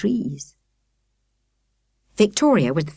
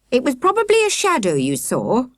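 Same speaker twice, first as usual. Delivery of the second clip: mild mock shout; 6 semitones higher than usual. A narrator's reading. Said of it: "Akela shouted".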